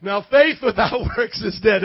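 laughing at his own slip; a laugh breaking the line; flubbed line. Real, not acted. Pastor laughing after garbling the verse. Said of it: "I messed it up".

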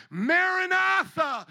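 drawn-out shouted call; loud cry. Real, not acted. Preacher cries out to the church, drawn-out shout.

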